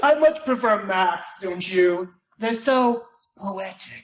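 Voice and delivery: lightly voiced genius kid lecturing; a smug teen brushing off a classmate; nerdy Gordy. Gordy again, dreamy about maths.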